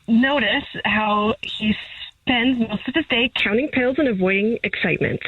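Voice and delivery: lightly voiced wildlife narrator, measured pace; David Attenborough. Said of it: "Channel my David Attenborough".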